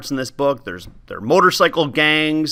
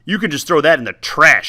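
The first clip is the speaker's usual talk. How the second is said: snapping; 2 semitones higher, 4 dB louder than usual. Acted. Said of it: "she snapped".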